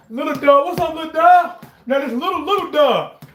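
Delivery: high-pitched pet talk; greeting little dog. Real, not acted. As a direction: call playfully to a little dog.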